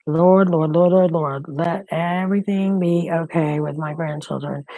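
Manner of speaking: pleading prayer to the Lord; anxious prayer. Real, not acted. Grandmother prays while her daughter won't pick up, pleading. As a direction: pray for the grandchildren under her breath.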